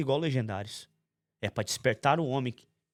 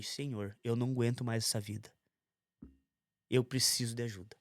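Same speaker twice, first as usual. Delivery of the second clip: a much softer plea to God; desperate prayer; 2 semitones lower, 7 dB quieter than usual. Retold or imitated. Kneeling at home, begging God for help, hushed plea. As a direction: pray it quietly, at the end of your rope.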